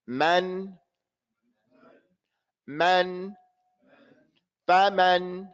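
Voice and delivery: "Man" and "faman" with long open a's; equal vowel lengths. Shown as a demonstration. Teacher has all repeat after me, correctly pronounced. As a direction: model "Man, man, faman" evenly, mouth open. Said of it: "all of these to be the same length".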